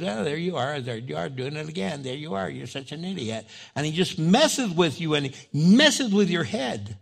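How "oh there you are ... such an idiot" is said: devil's taunt. Acted. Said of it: "The devil goes".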